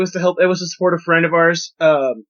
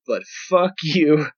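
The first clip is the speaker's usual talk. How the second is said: mock scolding; slower than usual. Real, not acted. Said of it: "so Fred can hear this".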